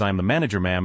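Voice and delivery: dead flat, no expression at all; monotone voice. Retold or imitated. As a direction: say it completely deadpan. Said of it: "in the most monotone voice ever".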